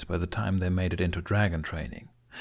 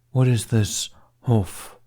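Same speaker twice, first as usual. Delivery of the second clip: curious dragon; 3 semitones higher, 4 dB louder, slower than usual. A narrator's reading. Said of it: "Toothless cocked his head".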